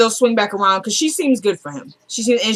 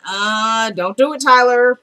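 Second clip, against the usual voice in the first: drawn-out, rising viewer's plea; mock pleading; 2 semitones higher, much slower than usual. Viewer begs Tyler as hugging starts, drawn-out mock plea.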